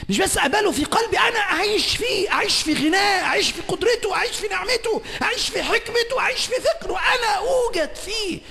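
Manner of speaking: high, loud proclaiming of God's throne; a preacher thundering before the congregation; full-force preaching. Acted. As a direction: preach it out at the top of your voice. Preacher builds a climax.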